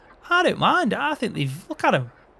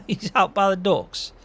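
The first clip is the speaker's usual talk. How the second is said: amused repeat, louder and drawn out; laughing disbelief; 5 semitones higher, 4 dB louder than usual. Real, not acted. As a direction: echo it back through a laugh, slowed. Laughing echo of reply.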